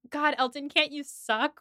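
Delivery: half-voiced annoyed outburst; retold yell. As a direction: imitate her exasperated yell without much volume. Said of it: "she yells".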